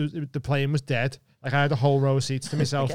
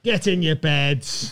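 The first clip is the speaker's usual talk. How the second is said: slow, drawn-out order; calling to dogs; much slower than usual. Real, not acted. Owner sending the dogs to bed, drawn-out command. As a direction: send the dogs off, stretching each word.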